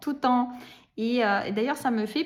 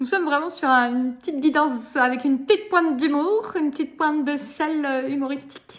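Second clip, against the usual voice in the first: slipping halfway into a Belgian French accent; 2 semitones higher, 4 dB louder than usual. Delivering a guidance message with a touch of humour, half-Belgian accent. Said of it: "je prends un accent à moitié belge".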